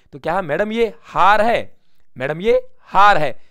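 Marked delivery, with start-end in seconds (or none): 0.4-1.8 mock scolding. Sales clerk scolding customer. 2.2-3.4 mock scolding. Repeat of clerk's scolding line.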